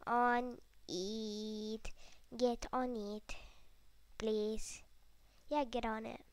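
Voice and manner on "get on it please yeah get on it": mean. Pretend. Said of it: "That sounded really mean".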